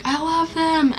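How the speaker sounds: high-pitched imitation of a gushing fan; friend freaking out. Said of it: "my friend Simone was freaking out".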